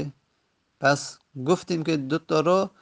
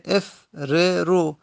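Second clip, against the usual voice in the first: slow demonstration; 3 semitones higher, much slower than usual. Shown as a demonstration.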